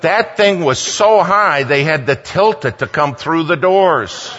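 loud, high-pitched amazement; emphatic, high preacher's exclamation; excited exclamation. Real, not acted. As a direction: raise the voice, marvelling at the size. Climax of the huge trophy story.

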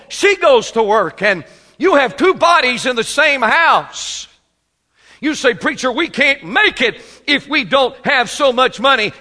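high, loud hammering sermon shout; fiery preaching. Acted. Preacher shouting at busy men in the pews. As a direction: preach it full force at the congregation.

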